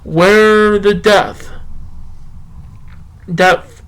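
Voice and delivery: measured poetry recitation, slowing near the end; unhurried spoken-word delivery; poem reading. Acted. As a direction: read the poem with feeling, lingering on lines. Reads his poem aloud.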